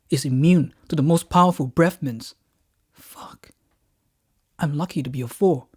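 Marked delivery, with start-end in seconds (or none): 2.9-3.5 whispered curse. Acted.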